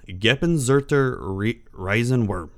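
slow, halting stab at German; attempted German pronunciation. Shown as a demonstration. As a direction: sound out the German name slowly. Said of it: "do my best to pronounce it by its German".

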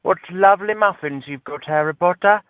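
high, prim mock British accent; mock posh British. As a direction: sneer in a Mary Poppins British accent. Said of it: "Harry Potter, Mary Poppins kind of way".

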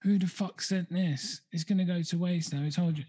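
mock outraged rant at unwanted food; kicking off. Boyfriend fuming about the free Subway, mock angry. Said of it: "the guy's in the background kicking off".

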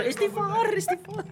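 computer voice. Retold or imitated. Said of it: "Kata komputer".

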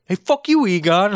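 high, loud mock snap; rude retort. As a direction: bark it back like a total jerk. Rude guy answers the greeting.

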